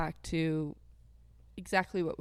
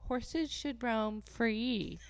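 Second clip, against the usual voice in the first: mocking quote; 5 semitones higher, much slower than usual. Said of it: "They always go".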